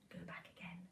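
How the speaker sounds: soft secret whisper; whispered plan. Acted. Mum whispering to Jack to go back, secretive. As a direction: hush it like a scheme.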